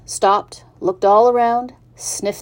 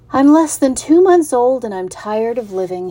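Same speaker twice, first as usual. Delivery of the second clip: put-on young pig Wilbur; 5 semitones higher, 5 dB louder than usual. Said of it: "he said".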